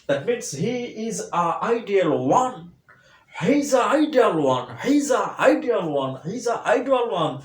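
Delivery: high, loud "He is a ideal one", is sounding like z; drilling the sentence for students; he's with a z. Shown as a demonstration. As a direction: stress "He", let is slide into z. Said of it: "হবে জ".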